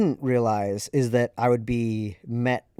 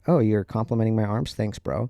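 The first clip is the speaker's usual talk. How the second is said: sarcastic; 4 dB louder than usual. Retold or imitated. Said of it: "so I was sarcastic".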